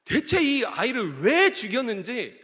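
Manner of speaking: acted protest to God, building in pitch; arguing with God. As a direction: build from recounting to baffled complaint. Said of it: "하나님께 따지듯이 이렇게 고백을".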